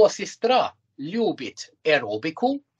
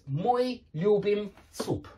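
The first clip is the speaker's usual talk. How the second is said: Мы любим суп said slowly and clearly; slow model sentence; 3 semitones higher, slower than usual. Shown as a demonstration. Teacher modelling a Russian sentence slowly for the class. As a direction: spell the sentence out slowly for learners. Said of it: "model sentence for learners".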